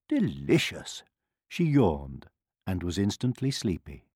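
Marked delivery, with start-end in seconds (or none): 0.1-1.0 lower, mildly sweet word of approval; sweetly. A narrator's reading. Queen praising the medicine to her son, sweetly. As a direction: say it with a touch of sweetness. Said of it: "she said sweetly".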